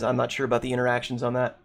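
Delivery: strained, fading voice; losing voice. Real, not acted. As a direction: talk through a worn-out throat. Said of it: "I'm losing my voice here".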